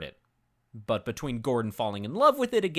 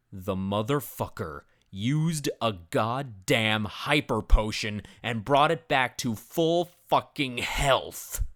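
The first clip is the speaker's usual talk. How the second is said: mock rage; 3 semitones lower, slower than usual. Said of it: "The level of rage I was experiencing".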